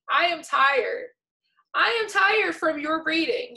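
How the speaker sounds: exhausted complaint with rising pitch; playfully exasperated. Real, not acted. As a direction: protest how worn out you are, drawing it out. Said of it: "I'm so exhausted".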